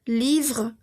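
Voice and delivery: "Livre" ending on vr, no final e; slowed French "Livre" with a mute ending; silent final E. Shown as a demonstration. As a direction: say "Livre" as leevr, dropping the E. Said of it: "No pronuncio mi E".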